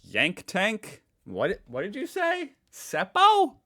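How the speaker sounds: loud, high-pitched baffled questions; mock bewilderment. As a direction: exclaim in exaggerated confusion at foreign slang. Acts out not understanding slang.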